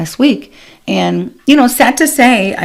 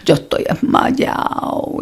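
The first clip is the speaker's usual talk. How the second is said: faint whisper; slower than usual. Retold or imitated.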